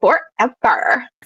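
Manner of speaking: put-on forever said in a Valley Girl accent. Imitating the other speaker's word: imitating a valley girl accent. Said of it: "You just did the Valley Girl accent".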